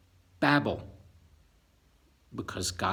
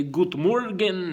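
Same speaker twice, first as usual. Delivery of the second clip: German greeting; 6 semitones higher, 7 dB louder, slower than usual. Shown as a demonstration. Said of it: "some people say".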